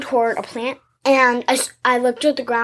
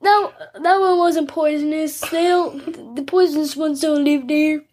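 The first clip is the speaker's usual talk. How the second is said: poison control guy; 4 semitones higher than usual. Retold or imitated. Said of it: "the guy was like".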